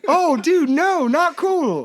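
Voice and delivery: loud, high, drawn-out protest; appalled exclamation. Real, not acted. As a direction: howl in disapproval at a friend. Appalled at friend's childhood story.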